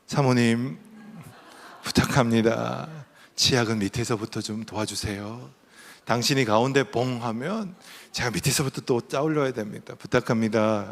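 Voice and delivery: politely entreating his wife; a courteous, restrained plea; polite request. Retold or imitated. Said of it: "공손하게".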